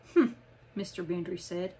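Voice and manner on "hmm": put-on short old man's "hmm"; grumpy hum. A narrator's reading. Grumpy old bookman answering Miss Chase, grumpy "hmm". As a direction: grunt a noncommittal "hmm". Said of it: "making one of his favorite sounds".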